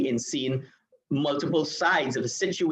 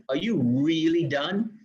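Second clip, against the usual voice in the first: really drawn out slowly; stress on really; 3 semitones higher, slower than usual. Acted. Classmate questioning whether someone is done, stress on really. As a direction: stretch out the word really. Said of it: "how much tone and emphasis and inflection".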